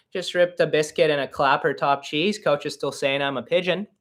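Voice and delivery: Canadian hockey-player slang accent. Shown as a demonstration. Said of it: "Something like that".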